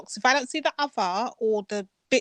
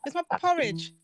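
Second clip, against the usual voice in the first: mock yell; 5 semitones higher than usual. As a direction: yell it like a spoiled brat. Mock demand for porridge.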